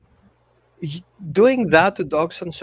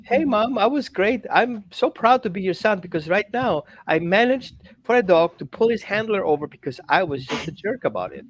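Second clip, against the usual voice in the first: bratty son; 3 semitones higher than usual. Retold or imitated. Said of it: "you go home and tell your mom".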